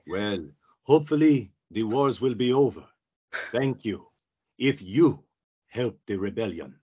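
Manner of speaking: measured, dignified senator's voice; Bail Organa. Pretend. Senator thanking a fan for the rebellion, measured and dignified. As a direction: speak with pauses, like a statesman. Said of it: "Sorry, Bail Organa".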